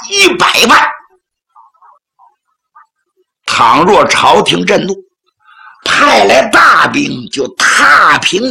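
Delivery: velvet threat, polite but menacing; soft with a hard edge. Acted. Envoy pressing the bandit's wife to surrender, veiled threat. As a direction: coax them, then lean in hard with the threat. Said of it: "说话是软中带硬".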